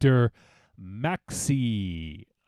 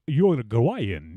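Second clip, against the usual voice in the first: mock Spanish accent. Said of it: "you try to do the accent".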